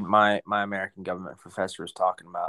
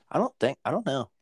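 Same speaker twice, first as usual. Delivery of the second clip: whispered aside; 6 semitones higher than usual. Real, not acted. Unsure aside.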